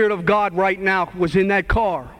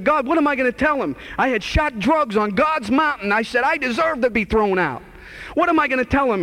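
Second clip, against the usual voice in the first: desperate plea; 7 semitones higher than usual. Retold or imitated. Caught using, pleading with God.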